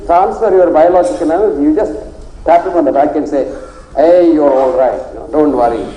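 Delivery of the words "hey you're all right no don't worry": calm a worried patient kindly; reassuring doctor. Retold or imitated. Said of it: "You must be generous with your patient".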